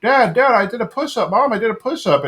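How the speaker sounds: put-on high, eager kid voice calling his parents; a boy thrilled to show off his first push-up; Bobby bursting in to tell his dad about the push-up, high and excited. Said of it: "and he was like".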